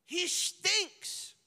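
loud, high blurted objection; hammed-up frantic warning; not delicate at all, loud and high; mock delicate protest. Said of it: "they're trying to be delicate".

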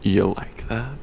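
dopey macho hunk. Retold or imitated. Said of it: "That was such a good fucking impression".

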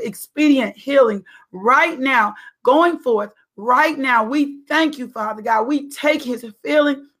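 prayer. Acted. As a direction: pray it out with faith. Continues prayer for healing.

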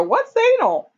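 put-on high, innocent child asking; lightly voiced child's innocent question; mock kid question. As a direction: squeak it like a curious little kid.

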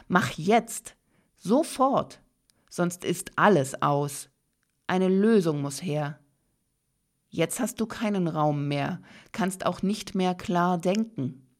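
a pushy inner voice rushing you; urgent ego voice. Retold or imitated. The ego pushes the listener to act now, loud and urgent. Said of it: "Es sagt".

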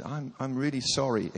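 soft, apologetic stammer; meek apology. Retold or imitated. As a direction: apologize quietly and humbly. Meek older man apologizing, retold.

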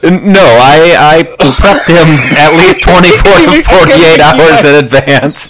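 suppressed laughter; holding back a grin; trying not to smile. Real, not acted. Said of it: "I can't even keep a straight face right now".

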